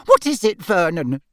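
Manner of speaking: high, alarmed question to her husband; frightened gasp. A narrator's reading. Aunt to uncle about the fire, gasping. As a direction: start high with fright, then drop. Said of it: "gasped Aunt Petunia".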